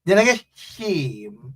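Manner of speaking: Guyanese country twang with style; rhythmic Corentyne twang. Shown as a demonstration. So that they can understand, Guyanese twang. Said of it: "you gotta say it so that they can understand".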